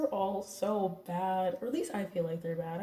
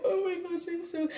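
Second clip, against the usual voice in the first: retold panic; 9 semitones higher than usual. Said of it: "I'm like".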